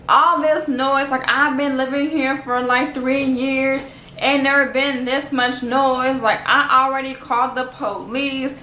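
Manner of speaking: drawn-out, slow mock complaint; lightly acted indignant rant; mock complaining neighbour. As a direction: imitate a neighbour griping, stretching the words. Acts out neighbour's noise complaint.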